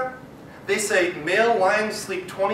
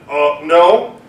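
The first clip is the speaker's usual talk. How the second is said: embarrassed lion; 7 dB louder than usual. Acted. Embarrassed lion denies needing help.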